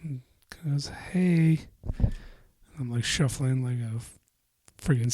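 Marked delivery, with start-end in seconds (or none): 0.9-1.7 whispered. Retold or imitated. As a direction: breathe the greeting. Coworker greets him quietly.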